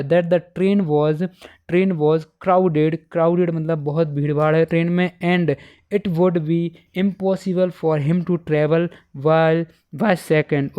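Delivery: slow, word-by-word English read-out; dictation reading. Shown as a demonstration. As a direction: read the answer out slowly for students to copy. Reads answer, one Hindi gloss inside. (धीरे-धीरे इमला बोलते हुए)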